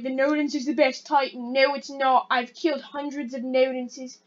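lightly attempted British accent; bad British accent. Gamer mocking players' Titan opinions in a bad British accent. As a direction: try a British accent, badly. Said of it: "I'm terrible at doing a British accent".

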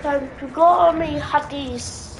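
gruff pirate captain. Acted. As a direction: bark orders like a pirate. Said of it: "I love doing the pirate voice".

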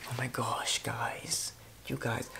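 hushed excited whisper. Real, not acted. Vlogger confiding to viewers in a whisper. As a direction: drop to a breathy whisper to share a secret.

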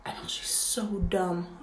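hushed whisper to herself. Real, not acted. Vlogger whispers about herself mid-piercing. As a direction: whisper it as an aside.

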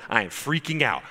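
mild imitation of an excited man; first, smaller take of the amazed quote; retold excitement. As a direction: lightly act out his amazement. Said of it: "walking around in the foyer going".

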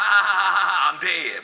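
loud, high imitated laugh; mock laughing. Grandfather mimics the boy's saying while scolding him, loud mock laughing. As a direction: belt out a fake laugh into the catchphrase. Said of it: "he was laughing".

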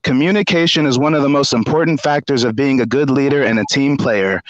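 measured, slightly formal read-out; reading an email aloud. Retold or imitated. Reading out a manager's reprimand email, measured read-aloud.

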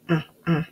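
Ah, ah as a short repeated a sound; teacher sounding out the letter. Shown as a demonstration. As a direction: isolate the a sound. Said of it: "Say apple".

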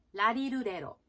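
ラリルレロ with L, like Japanese ラ行; L sounds. Shown as a demonstration. Coach repeating the L example for learners, L-sound ラリルレロ. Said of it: "Lの発音です".

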